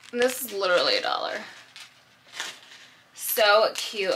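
short of breath, puffing between words. Real, not acted. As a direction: talk while winded. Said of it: "I'm, like, out of breath".

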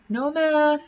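high, loud gloating; gleeful cheer. A narrator's reading. Boy cheers skipping math, high and loud. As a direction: crow it with glee.

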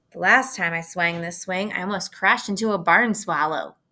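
loud call down from the hayloft; yelling. Acted. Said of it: "he yelled".

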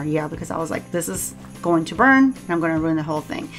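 ordinary talk, nothing marked

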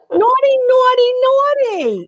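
wag a finger at them playfully; playful scolding. Acted. Teasing scold of caller.

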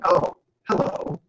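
slow, meek little hello; meager greeting. Shown as a demonstration. Teacher showing a meager greeting into the camera, meek. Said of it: "rather meagerly into the camera".

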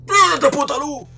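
high, loud, drawn-out yell; frantic slow shout. Real, not acted. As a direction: scream at the light to turn on. Grita a la luz que no enciende. (grito frenético y alargado)

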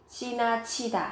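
지나치다 with the 치 clearly aspirated, a strong puff of air; aspirated pronunciation. Shown as a demonstration. Teacher showing students the aspirated 치 in 지나치다. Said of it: "các bạn phát âm với âm bật hơi".

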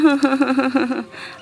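play-cry without words; mock sobbing. Girl who lost her market money, mock sobbing. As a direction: pretend sob in a string of pulses.

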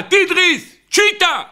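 high-pitched alarmed cry of tiger; retold scream. Gentile spots a tiger coming, acted high scream. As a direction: cry out a warning, pitch leaping up. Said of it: "הוא נתן צעקה".

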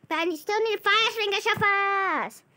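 frustrated realization; exasperated. Real, not acted.

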